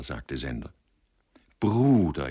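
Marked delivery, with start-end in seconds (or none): 1.6-2.3 jubilant. Acted. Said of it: "jauchzte Hoheneichen".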